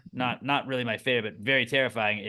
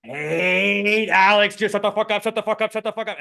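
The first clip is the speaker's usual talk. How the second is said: mock furious rant; 10 semitones higher, 7 dB louder than usual. Friend's hidden thoughts while chatting to the host, mock furious rant. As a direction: act out a seething inner monologue, pitched way up. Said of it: "he's just like".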